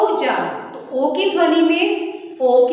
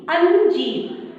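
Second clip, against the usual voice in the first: slow drawn-out word; 4 semitones higher, much slower than usual. Shown as a demonstration. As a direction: say अंजीर very slowly, stretching the अं. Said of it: "जब मैंने अंजीर शब्द बोला". (अंजीर को बहुत धीरे, खींचकर बोलें)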